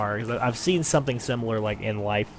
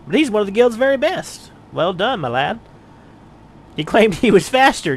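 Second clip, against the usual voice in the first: lightly voiced kindly old guildmaster; a hint of a fond teacher praising a student; proud mentor; 3 semitones higher than usual. Mentor congratulates Ursa on beating Wide Gully, lightly voiced fond pride.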